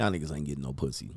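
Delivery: play-acted disappointed, let-down, unimpressed tone. Retelling what Chill said to the kids: imitating Chill, disappointed. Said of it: "just disappointed in us".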